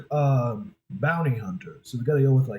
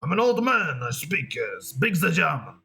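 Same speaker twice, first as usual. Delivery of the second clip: higher-pitched old man with mock German accent; snarky old German man; 3 semitones higher than usual. Trying out a dictator character's voice, snarky old German man. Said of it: "he sounds a little snarky".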